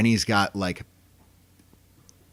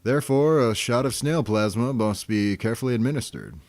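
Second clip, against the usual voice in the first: lightly voiced, self-assured cartoon doctor; a hint of an assured medical authority; confident doctor voice; 4 semitones higher than usual. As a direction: pronounce it like a confident physician, lightly put on. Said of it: "kinda confident".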